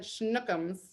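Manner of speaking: playful Boston accent on a pet name. Shown as a demonstration. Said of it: "Do I say it good in my Boston accent?".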